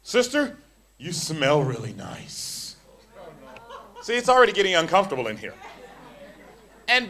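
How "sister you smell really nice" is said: slow, drawn-out line; a preacher mocking a sleazy compliment. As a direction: stretch it out creepily. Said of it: "All sensual".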